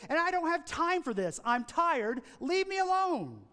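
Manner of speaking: a touch of an irritated father scolding; angry father. Acted. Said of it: "The father was furious".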